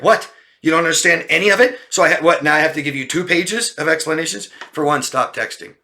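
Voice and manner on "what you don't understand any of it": high, fast, disbelieving; fast, high scoffing retort; incredulous mock question. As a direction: throw it back at them in disbelief. Mocking confused texter.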